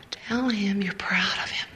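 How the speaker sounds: the Lord quietly interrupting her worried thoughts; soft whisper. Retold or imitated. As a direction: cut in quietly, barely voiced. The Lord's voice cutting in again.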